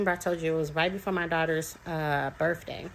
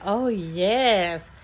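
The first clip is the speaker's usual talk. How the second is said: loud, eager agreement; delighted child; 5 dB louder than usual. Retold or imitated. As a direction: imitate a thrilled little kid agreeing.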